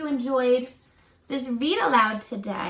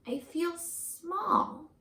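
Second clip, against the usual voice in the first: slow, softer and small; mild sadness; 4 semitones higher, 4 dB quieter, much slower than usual. Acted. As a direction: let the words shrink, a little sad. Book character feels small.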